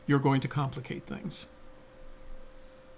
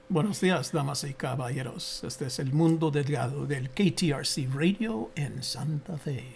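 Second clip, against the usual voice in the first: Spanish radio announcer voice; lightly voiced Latin radio host; Uncle Mundi voice. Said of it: "Now you have to do your uncle. Mundi".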